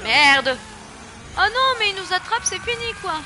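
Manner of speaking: high, loud panicked cries; loud despairing yell; panicked shouting. Real, not acted. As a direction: shout as the enemies grab you. Caught by enemies.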